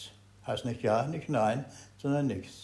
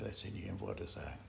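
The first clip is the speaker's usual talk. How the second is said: hushed repeat; 3 semitones lower, 14 dB quieter than usual. Shown as a demonstration. Teacher repeats it to the group, hushed. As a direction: drop to a near whisper. Repeats the saying, far softer.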